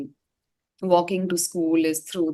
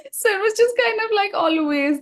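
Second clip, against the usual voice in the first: much higher, still giggling through the words; laughing while talking; 6 dB louder than usual. Real, not acted. Guest to host after the report card story, still laughing and high. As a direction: speak through the tail of a laugh.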